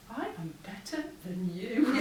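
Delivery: smug. Retold or imitated. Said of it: "that smile said to me".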